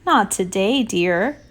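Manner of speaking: understated sighing mother; mild sigh. Acted. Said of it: "her mother sighed".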